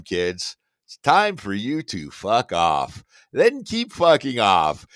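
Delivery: a cheesy host closing out the show; bad seventies game show host. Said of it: "our bad seventies game show host".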